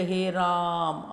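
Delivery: "हे राम" with the vowel stretched long and slow; drawn-out call. Shown as a demonstration. Teacher showing the children the long pluta vowel, drawn out. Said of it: "जितना लंबा करके बोलते हैं".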